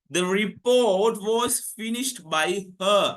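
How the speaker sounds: very slow, word-by-word example; deliberate dictation pace; slow model sentence. Shown as a demonstration. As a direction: stretch each word out for the class. Teacher gives passive answer slowly.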